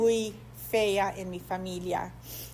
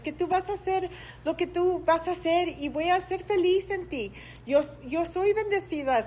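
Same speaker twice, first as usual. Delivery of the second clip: higher, pleading prayer voice, rising toward the end; fervent retold prayer; 6 semitones higher than usual. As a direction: pour your heart out to God, pleading. Relata su oración desesperada a Dios. (oración ferviente y suplicante, más aguda)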